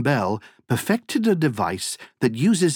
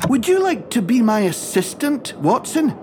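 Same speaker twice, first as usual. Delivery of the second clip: eager invitation; 8 semitones higher than usual. Acted. Inventor invites electrician to join.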